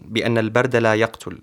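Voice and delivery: measured, fluent poetry reading; poem recitation. Acted. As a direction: recite your own verse with steady flow. Poet recites his Arabic poem.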